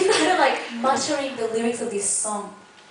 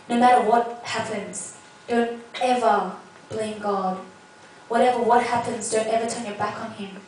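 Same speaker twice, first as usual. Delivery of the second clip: stern. Retold or imitated. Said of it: "she was, like, so stern".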